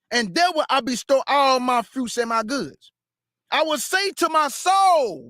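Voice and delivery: measured solemn scripture reading. Acted. Preacher reading scripture to congregation, measured solemn reading. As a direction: read the King James text aloud.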